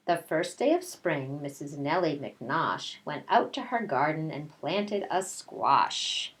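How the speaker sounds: storybook read-aloud voice; reading to children. A narrator's reading. Teacher reading a picture book to her class, storytelling voice.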